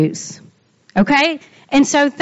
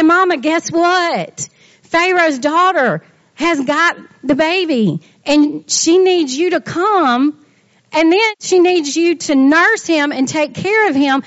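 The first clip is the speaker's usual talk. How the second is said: put-on excited child's news; 3 semitones higher than usual. Sister running to tell Mama about the baby, excited. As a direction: deliver big news with a touch of breathless excitement.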